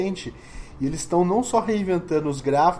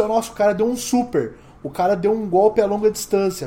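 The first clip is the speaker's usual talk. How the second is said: slightly higher, lively simple call; plain-words caster; 3 semitones higher than usual. Shown as a demonstration. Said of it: "por que que você não fala assim".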